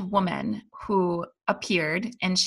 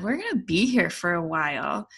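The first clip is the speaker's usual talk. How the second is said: retold dry sarcasm; lightly sarcastic, as if recalling your own remark; understated sarcastic aside. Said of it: "I was being sarcastic".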